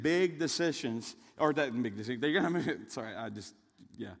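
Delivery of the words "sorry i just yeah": laughing apology. Real, not acted. Laughs after interrupting himself.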